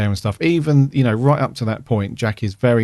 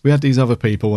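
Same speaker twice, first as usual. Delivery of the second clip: put-on London accent; faster than usual. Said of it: "I'm doing a London accent there".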